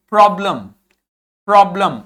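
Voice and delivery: "प्रॉब्लम" with full o and a weak second vowel; full o, half vowel after. Shown as a demonstration. Teacher showing the schwa to students, "प्रॉब्लम" with reduced last vowel. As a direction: lean on the first syllable of "प्रॉब्लम". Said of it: "ओ को तो पूरा बोलना है".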